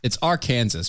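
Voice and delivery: "Arkansas" said as ar-KAN-zis; Kansas inside Arkansas. Shown as a demonstration. Host settling the pronunciation, "Arkansas" as Ar-Kansas. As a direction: pronounce "Arkansas" to rhyme with Kansas. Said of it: "because Kansas is in the name".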